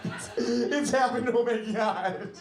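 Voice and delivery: mock-crying mother on the phone; crying mom impression. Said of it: "She was crying. She's like".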